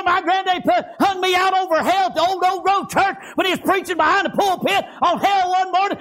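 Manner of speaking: impassioned revival preaching with a drive; fervent preaching. Acted. Preacher stirring his congregation in fervent preaching. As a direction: preach it out to the pews with fire.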